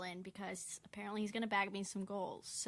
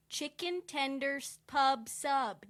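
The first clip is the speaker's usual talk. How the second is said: excited; 5 semitones higher, 7 dB louder, slower than usual. Pretend. Hyped grocery recommendation.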